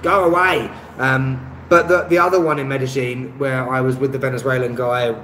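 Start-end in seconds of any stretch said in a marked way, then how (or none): 0.0-0.7 mildly exasperated, raised-pitch "go away"; retold go-away. YouTuber recalling a host who kept knocking, mildly exasperated. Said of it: "I was like".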